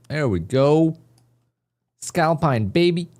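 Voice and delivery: high, loud hype shout; excited. Real, not acted. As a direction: celebrate the win, pumped. Winning trade celebration.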